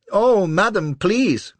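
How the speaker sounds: high, loud begging; pleading cry. A narrator's reading. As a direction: beg in a panic. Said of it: "cries the little chap".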